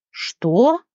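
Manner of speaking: a sharp, high gasped question; gasping. A narrator's reading. Leona shocked by the gnome's demand, gasped question. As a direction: catch your breath in shock. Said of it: "ахнула Леона".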